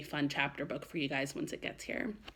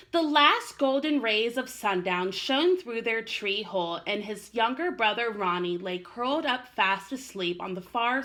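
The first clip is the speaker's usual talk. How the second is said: gentle storybook narration; story narration. A narrator's reading. Teacher reading the story to children, gentle narration. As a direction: read it like a bedtime story.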